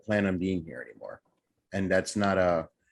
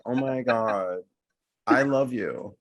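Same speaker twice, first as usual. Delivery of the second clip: put-on gushing girl; 2 semitones higher, slower than usual. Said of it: "You sound like this girl".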